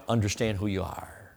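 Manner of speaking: whispered, urgent. Real, not acted. Preacher pressing the point to the congregation, whispered. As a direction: breathe it like a secret.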